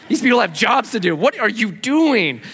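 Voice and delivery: hammed-up embarrassed objection; mock exasperation. Companion objecting to staff being called out, mock exasperated. Acts out his protest to friend.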